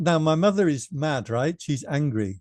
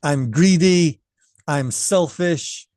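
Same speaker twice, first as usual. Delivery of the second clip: mother's mock yell, louder and slowing; retold scream; 2 semitones higher, 5 dB louder, slower than usual. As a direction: imitate an angry mother yelling accusations. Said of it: "my mother starts screaming at me".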